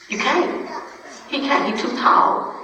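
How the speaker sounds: high, rising disbelief; high-pitched incredulity; incredulous. Real, not acted. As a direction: pitch shoots up in protest. Disbelief at suicide ruling.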